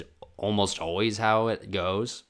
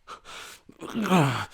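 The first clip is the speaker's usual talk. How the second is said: mock dad sob; 8 semitones higher, 3 dB louder than usual. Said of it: "it came out like that".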